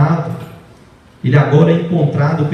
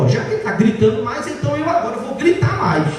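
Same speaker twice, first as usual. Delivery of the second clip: voicing the wife; 6 semitones higher, faster than usual. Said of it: "eu digo".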